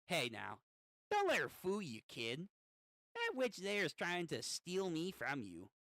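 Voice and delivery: lightly voiced little gremlin; scheming imp with a swooping pitch. Inner demon warning the kid, in a gremlin voice. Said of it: "give him, like, a little, like, gremlin voice".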